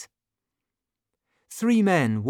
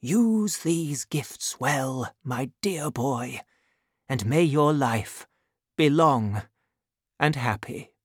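tender fatherly blessing. Acted. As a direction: give a father's blessing, lingering gently. Father's blessing to departing son.

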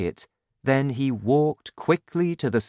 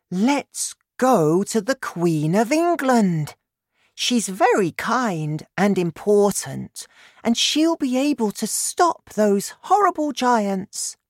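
put-on high-pitched, eager child's voice; excited girl; 10 semitones higher, 4 dB louder than usual. A narrator's reading. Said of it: "she cried excitedly".

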